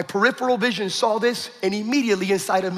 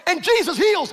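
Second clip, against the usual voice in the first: higher, punchy preaching phrases; quick preaching burst; 7 semitones higher than usual. Retold or imitated. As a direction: re-enact a hurried sermon proclamation. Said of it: "I did this quickly. Watch".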